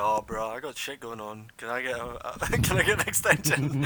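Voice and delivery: hammed-up sob story, laughing through it; playing for sympathy to the lecturer, laughing; hamming it up. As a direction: ham up the excuse, grinning. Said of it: "I was hamming it up".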